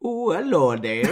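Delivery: singsong mock Welsh accent. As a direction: greet in a put-on Welsh accent. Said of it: "One more, Welsh".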